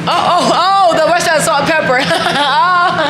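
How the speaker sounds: high, quick oh-oh-oh of understanding; light up as it clicks; sudden realization. Real, not acted. Realizes the restaurant name, laughing.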